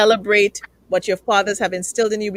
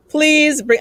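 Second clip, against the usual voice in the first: excited plea; 7 semitones higher, 6 dB louder than usual. Retold or imitated. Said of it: "I'm not saying this, they're saying".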